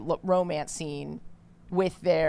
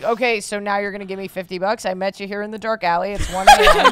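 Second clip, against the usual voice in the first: shady stranger; 6 dB louder than usual. Retold or imitated. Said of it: "He's like".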